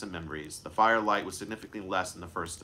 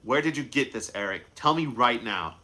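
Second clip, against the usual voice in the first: angry demand; 3 semitones higher, 4 dB louder than usual. Acted. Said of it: "he was filled with anger".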